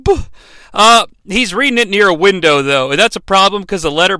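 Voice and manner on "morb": hammed-up cry, higher and louder; mock anguished cry. Milo reading the letter, hammed-up anguished cry. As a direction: wail his name in fake despair. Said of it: "and he's like".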